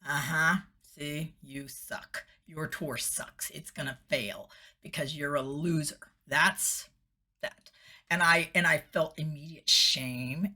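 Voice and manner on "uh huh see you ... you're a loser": inner critic. Retold or imitated. The voice of stinking thinking talking down to her, quietly smug. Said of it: "there goes that voice".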